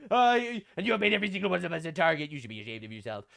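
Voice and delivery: lightly voiced scolding politician; a hint of accusatory parody; mock Humza Yusuf. Reading Humza Yusuf's post to Rupert Lowe as a mild mock. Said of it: "Humza Yusuf, Muslim, says".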